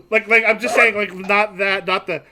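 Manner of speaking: laughing through the words. Real, not acted. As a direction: chuckle while talking. Laughing at table joke.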